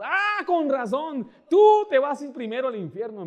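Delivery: hammed-up yell of indignant vindication; scornful outburst. Woman damning the pastor on learning his job, loud mock outburst. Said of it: "Me empezó a decir a mí".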